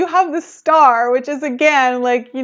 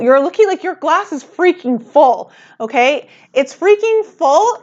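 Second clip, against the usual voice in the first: rising excitement, higher pitch; getting more and more worked up; excited; 4 semitones higher than usual. Real, not acted. Emphatic tarot reading.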